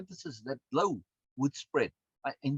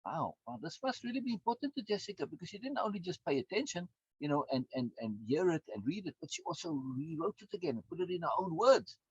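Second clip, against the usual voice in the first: voicing the brain; 5 semitones higher than usual. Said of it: "Your brain says".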